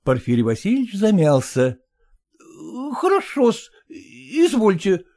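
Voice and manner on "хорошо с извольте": high, reluctant, half-grumbling clerk voice; grudging son-in-law. Acted. Son-in-law balking at the father-in-law's orders, high and grudging. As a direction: give in, then balk at the cost. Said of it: "пробормотал он".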